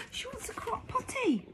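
very high panicked cry. Acted. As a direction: call out in a fluster. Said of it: "cried the admiral".

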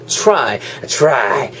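"try" begun with a "chu" sound, like "chry". Shown as a demonstration. Teacher demonstrating the TR sound, chu-like onset. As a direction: soften the T of "try" into "ch". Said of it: "트 사운드가 아니고 약간 추".

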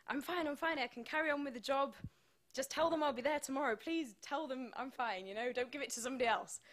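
high, pleading "I'm fine"; insisting "I'm fine". Retold or imitated. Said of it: "texting my agent saying".

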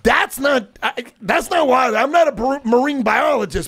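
loud-ish comic objection; incredulous retort. Retold or imitated. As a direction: argue it back, mock-outraged. Acts out his incredulous retort.

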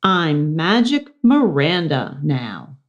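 slow, grand stage voice; magician announcement. Acted. Miranda naming herself, slow grand magician voice. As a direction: proclaim it like a showman.

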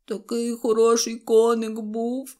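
hammed-up weeping voice; sobbing. A narrator's reading. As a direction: lament it through acted sobs. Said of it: "аж схлипнув Забудько".

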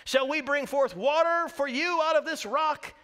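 loud, high rebuke, rebels slowed; angry Moses. Retold or imitated. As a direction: scold the crowd as furious Moses. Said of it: "he said to them".

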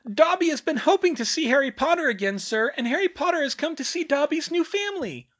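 high, loud, breathless elf voice; eager house-elf. Acted. Dobby welcoming Harry to the house, high and eager. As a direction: gush like an overjoyed little elf.

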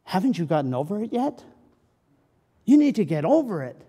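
impatient. Retold or imitated. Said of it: "people may say".

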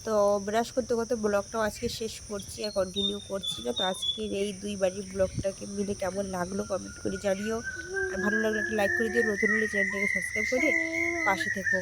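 talking with a toothbrush in mouth; words blurred by brushing teeth; while brushing teeth. Real, not acted. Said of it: "এখন brush করে নিচ্ছি".

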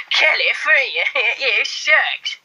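laughing through a mock American accent. Playing a Californian for viewers, giggly American accent. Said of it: "Someone said do American accents".

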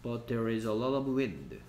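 very slow, word by word; slow read-aloud. Shown as a demonstration. Teacher reading the rain sentence slowly to students. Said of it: "teacher reads sentence".

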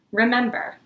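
urgent call. Acted. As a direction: cry it out as a rallying call.

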